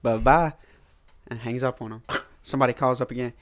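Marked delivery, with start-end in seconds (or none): 0.0-0.5 curt mock bye-bye. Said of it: "He goes".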